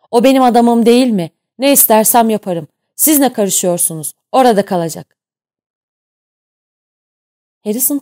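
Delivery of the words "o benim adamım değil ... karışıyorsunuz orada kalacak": loud, higher furious tirade; furious captain. A narrator's reading. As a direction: roar your authority at him. Captain roars at Johnson. (kaptan Johnson'a öfkeyle bağırıyor)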